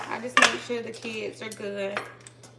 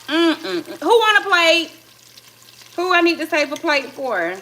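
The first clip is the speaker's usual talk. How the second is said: excited call; 6 semitones higher, 8 dB louder than usual. Real, not acted. Proud cook calling to family.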